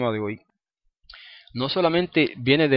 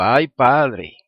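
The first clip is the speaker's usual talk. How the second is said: surprised exclamation; 4 dB louder than usual. Retold or imitated. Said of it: "Ahora siempre digo".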